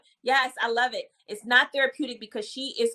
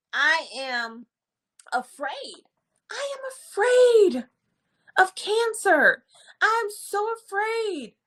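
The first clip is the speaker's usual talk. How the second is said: high, frightened client voice, pitched way up; scared client; 8 semitones higher, slower than usual. Retold or imitated. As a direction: play the frightened patient, voice climbing. Client voiced, afraid of cancer.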